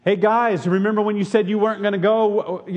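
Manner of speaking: the accusing Jesus he never was; mock accusation. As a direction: needle them with their broken promise. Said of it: "could have thrown all kinds of accusations".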